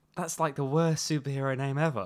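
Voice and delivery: soft muttered aside under the breath. Speaking in character about a villain's name: under his breath. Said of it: "I say this under my breath".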